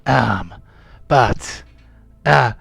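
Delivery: lightly voiced old sea dog; a hint of a grizzled pirate. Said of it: "by the power of my pirate voice".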